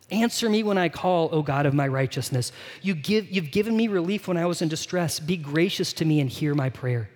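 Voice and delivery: psalm read aloud with mild urgency; a restrained plea to God; desperate prayer. Acted. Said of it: "Do you hear the desperation there?".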